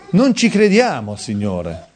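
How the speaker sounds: emphatic outcry. Real, not acted. Preacher confesses the congregation's unbelief to the Lord, emphatic outcry. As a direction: raise it and stretch it out slowly.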